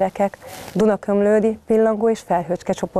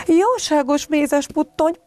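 higher, slow mock dismay from mother bear; mother bear clutching her head, mildly voiced; exasperated exclamation; 9 semitones higher, slower than usual. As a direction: throw up your hands, weary mother. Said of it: "kapott fejéhez Mackó mama".

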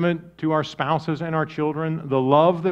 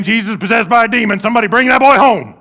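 gossiping crowd; 6 semitones higher, 6 dB louder, faster than usual. Retold or imitated. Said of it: "People going around saying".

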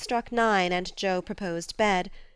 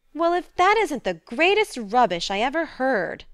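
louder, higher outraged cry; indignant; 6 semitones higher, 6 dB louder than usual. A narrator's reading. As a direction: scoff at the rubbish, fired up. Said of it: "cried Joe indignantly".

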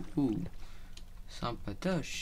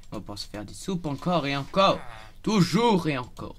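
getting carried away loudly; manic excitement; 3 semitones higher, 6 dB louder than usual. Real, not acted. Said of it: "faut que j'arrête de péter un plomb".

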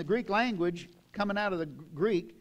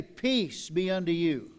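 blessing; 2 semitones lower, slower than usual. Shown as a demonstration. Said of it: "Look at the person next to you and say".

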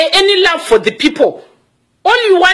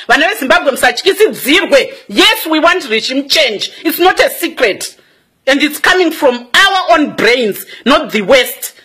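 preaching; slower than usual. Acted. Preaching to Zimbabweans, scripture.

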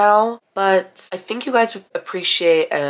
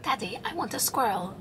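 put-on higher, whiny spoiled child begging daddy; spoiled brat whine; 4 semitones higher, 7 dB quieter than usual. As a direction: beg like a spoiled little girl. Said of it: "Do you think I'm a spoiled brat?".

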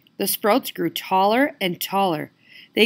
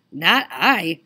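growling dog; 4 dB louder than usual. Acted. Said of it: "growled the black dog".

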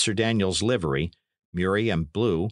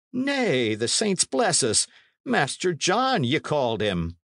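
high-pitched, protesting innkeeper; flustered landlord; 7 semitones higher than usual. A narrator's reading. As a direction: protest innocence to an angry lord.

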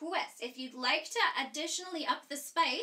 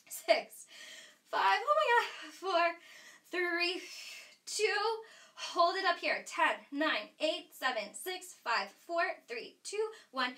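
straining through ab work; 3 semitones higher than usual. Real, not acted. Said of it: "My abs are on fire".

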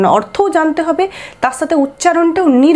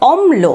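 "অম্ল" raised, m held before lo; slight stress on ম; 5 semitones higher, slower than usual. Shown as a demonstration. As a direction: press the m in "অম্ল". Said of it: "একটু জোরে উচ্চারণ করতে হচ্ছে".

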